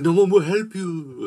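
mock menace, pitched high and swooping; vampire master. Master answering a woman begging for help, mock menace. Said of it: "the master comes out".

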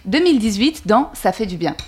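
lightly performed letter reading; reading aloud. Acted. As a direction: read it like a tribute. Reads her poem-letter to Nadia.

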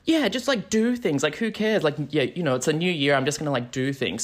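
breezy, high-pitched start easing back down; devil-may-care, voiced high then settling; New Year's energy. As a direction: act out carefree New Year's resolve. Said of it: "I had that, like, New Year's energy".

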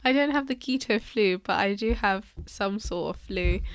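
stuffy, blocked-nose voice; nasal voice. Real, not acted. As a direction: talk through a head cold. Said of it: "excuse me if I sound a bit nasally today".

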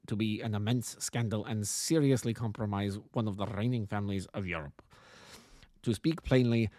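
lightly voiced formal Bohemian nobleman with German accent; a touch of a harsh German-accented aristocrat; German-accented count. Client introducing himself to the detective, lightly voiced German-accented count. Count explains the delicate matter.

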